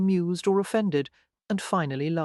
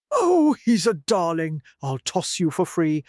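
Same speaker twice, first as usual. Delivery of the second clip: flirty tart voice; 4 dB louder than usual. A narrator's reading. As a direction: tease him like a cheeky streetwalker. Blonde whore flirts with Hunter.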